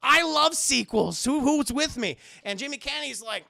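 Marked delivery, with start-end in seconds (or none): 0.0-2.2 loud, high, drawn-out enthusiasm; rally the room with a big slow cheer; excited fan. Retold or imitated. Acted enthusiastic movie fan rallying the class.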